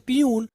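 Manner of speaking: पियून drawn out on a long "oo"; common mispronunciation. Shown as a demonstration. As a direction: say पियून like "pee-yoon". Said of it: "हम लोग पढ़ते हैं". (पियून, लंबे "ऊ" वाला देसी उच्चारण)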